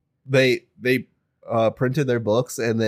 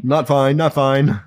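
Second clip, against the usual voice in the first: mock panicked echo; 3 semitones higher, 5 dB louder, slower than usual. Echoing panic, louder.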